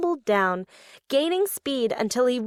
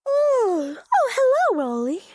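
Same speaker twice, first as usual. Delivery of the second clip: put-on exhausted old friend sighing hello; weary sigh; 10 semitones higher, 4 dB louder than usual. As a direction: sigh it out, worn out. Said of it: "she sighed".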